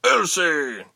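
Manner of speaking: high cry of disbelief; incredulous cry. A narrator's reading. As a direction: call out in astonished disbelief. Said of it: "Jonan cried incredulously".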